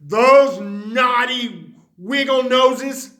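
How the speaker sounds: slow angry grumble at the bunnies; seething. Acted. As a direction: spit each word out slowly, seething. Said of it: "seethed Mister McGreely".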